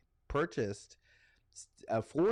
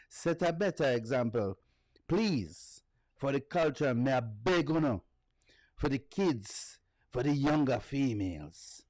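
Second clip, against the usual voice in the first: put-on Jamaican accent reading. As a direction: read a singer's words in a Jamaican lilt, half-earnest. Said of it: "read it in a Jamaican accent".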